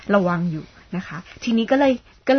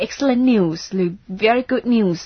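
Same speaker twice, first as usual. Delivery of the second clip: bright and louder, pleased; glad; 2 semitones higher, 5 dB louder, much slower than usual. Shown as a demonstration. Teacher giving good news to a friend, pleased. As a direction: sound delighted with the news. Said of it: "แสดงความดีใจหน่อย".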